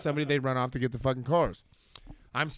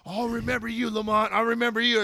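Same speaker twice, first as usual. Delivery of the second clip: put-on higher, laughing drunk complaint and threat; mock drunk whine; 8 semitones higher than usual. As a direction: grumble like a sore arrested drunk. Arrested guy's complaint and threat.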